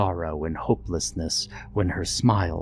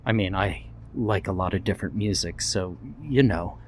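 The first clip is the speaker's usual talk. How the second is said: stuttering. Acted. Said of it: "he stuttered".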